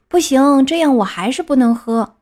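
put-on a touch of a stubborn child's outburst; protesting refusal. Puppet refuses the fairy's medicine, mildly protesting.

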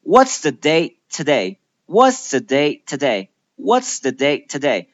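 "What's the day today" with an abrupt unreleased stop after "day"; held T before "today"; stopped T. Shown as a demonstration. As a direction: cut off "day" as if ending in a silent T. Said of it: "但是突然停住，止住不发音".

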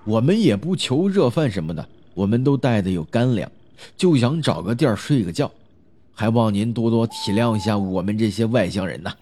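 courteous pleading through a closed door; smooth things over deferentially; polite, apologetic. Acted. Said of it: "客客气气".

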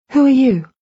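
frightened question to the group; alarmed demand. A narrator's reading. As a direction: challenge the strangers in alarm. Confronting strangers at her bed.

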